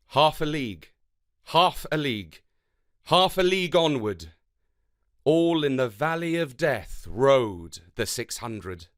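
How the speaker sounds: rhythmic, dramatic poem reading; galloping poem recital. Acted. Teacher reading a war poem to the class, rhythmic recital. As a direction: ride the galloping beat of the verse. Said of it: "Listen out for the galloping rhythm".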